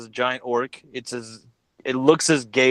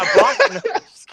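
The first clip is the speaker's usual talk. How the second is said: drawn-out, much higher and louder announcer call; hype introduction; 8 dB louder than usual. Acted. Host introducing the orc guest with a slow, loud announcer build-up. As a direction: stretch the name out like a ring announcer.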